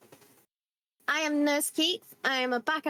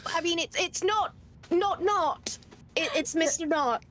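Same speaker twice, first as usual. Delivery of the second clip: flustered insistence; 6 semitones higher than usual. Acted. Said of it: "turn to Rosemary and go".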